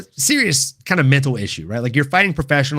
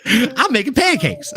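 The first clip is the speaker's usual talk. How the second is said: laughing misquote; 9 semitones higher, slower than usual. Acted. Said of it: "Or no, I'm making waffles".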